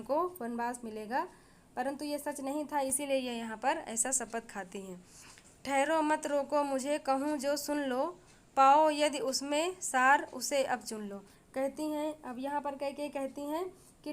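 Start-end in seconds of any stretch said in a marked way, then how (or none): 5.6-11.2 louder, emphatic poem recitation; verse recitation. Acted. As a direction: recite the queen's plea in a raised voice.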